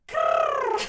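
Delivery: piercing high loud krrr; loud call. Acted. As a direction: shout over the crowd. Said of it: "loud enough to override the voices".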